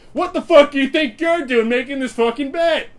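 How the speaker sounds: high, loud, slow cursing rant; yelling insults in a high, slow voice; mock angry yelling. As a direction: rant at him like a furious teen. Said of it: "us being like".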